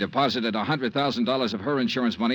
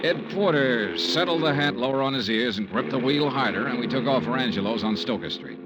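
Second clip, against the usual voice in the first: story narration. A narrator's reading. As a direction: tell it like a hardboiled private eye.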